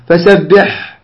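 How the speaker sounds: فسبح stopped with a faulty final ح; wrong pausal ending. Shown as a demonstration. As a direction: demonstrate the mistaken ending on فسبح. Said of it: "خطأ".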